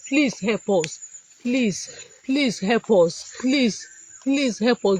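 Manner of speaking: slow pleading. Real, not acted. Kidnapped teacher begs for help.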